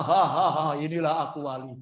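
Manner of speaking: hammed-up gloating ha ha; mock boastful laugh. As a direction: play a boastful fake saint. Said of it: "Bukan ketawa".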